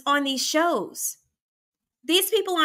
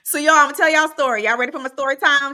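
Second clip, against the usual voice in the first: excited; 5 dB louder, faster than usual. Real, not acted. Hyping up story time.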